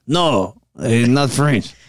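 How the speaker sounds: founder's mock accent, taken for French; lightly stilted, French-sounding accent; put-on foreign accent. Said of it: "You gotta sound like, uh, Scarface".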